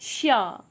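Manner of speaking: शा said slowly and clearly, with a full open sh sound; careful pronunciation. Shown as a demonstration. Teacher models शा for beginners, clear careful pronunciation. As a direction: model the word शा cleanly for learners. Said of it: "इसका ध्यान दीजिएगा pronunciation पे".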